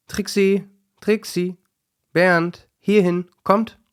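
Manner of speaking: high, loud call across the garden. A narrator's reading. Owners calling the dogs home, shouting high and loud.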